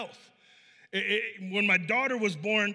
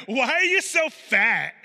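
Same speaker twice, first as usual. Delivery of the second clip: put-on higher, louder, childlike blunt question; mimicking a blunt child; 3 semitones higher, 5 dB louder, slower than usual. Preacher imitating a child asking why you're fat. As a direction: play the kid with no filter, wide-eyed. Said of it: "they'll just be like".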